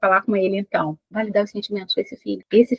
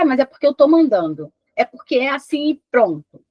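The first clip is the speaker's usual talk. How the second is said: curt, slightly raised parental command; bossy order; 4 semitones higher than usual. Acted. Mãe dando ordem sem explicar ao filho, tom mandão. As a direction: shut down the question, no explaining. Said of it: "o jeito errado de se falar com ele é você dar ordem sem explicar".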